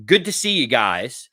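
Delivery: slow, casual imitated sign-off; offhand farewell. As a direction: toss it out while busy with papers. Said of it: "as he's leaning down to pick up his papers".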